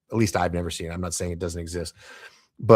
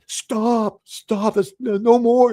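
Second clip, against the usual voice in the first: much higher, louder yell at himself; inner yell; 8 dB louder, much slower than usual. Retold or imitated. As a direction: shout to stop yourself, panicked. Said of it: "I'm yelling".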